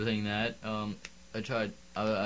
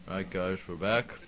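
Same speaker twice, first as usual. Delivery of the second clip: pen in teeth; 2 semitones lower than usual. Real, not acted. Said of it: "Take the pen out of your mouth".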